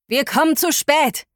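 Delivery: "Wir kommen zu spät" cried out high and urgent; despairing radio cry. Acted. Heukür on radio, whales in danger.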